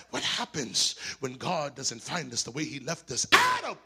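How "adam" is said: high ringing call. Acted. God searching the garden for Adam, calling out loud. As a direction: call his name across the garden.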